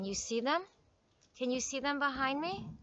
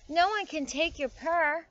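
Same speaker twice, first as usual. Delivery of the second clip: higher-pitched, tender mother's reassurance; 6 semitones higher, slower than usual. A narrator's reading. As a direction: reassure the little one lovingly. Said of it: "said her mother tenderly".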